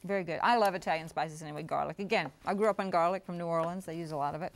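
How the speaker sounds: talking while chewing; mouth full. Real, not acted. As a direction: speak through a mouthful of food. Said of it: "it's okay to talk with your mouth full".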